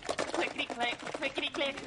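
mocking sing-song. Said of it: "Talk about annoying noises".

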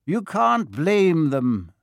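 put-on slow, gentle old wizard; a touch of gentle calm. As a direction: ease her worry, slowly. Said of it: "said Dumbledore gently".

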